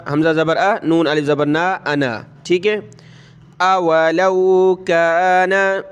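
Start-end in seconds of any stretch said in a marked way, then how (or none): 3.6-5.8 अवलौ with short a, not औलौ; correct reading. Shown as a demonstration. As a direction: say अवलौ slowly, अ then व. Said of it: "इसकी जगह आप औलौ नहीं पढ़ सकते". (अवलौ को ज़बर के साथ धीरे पढ़ें)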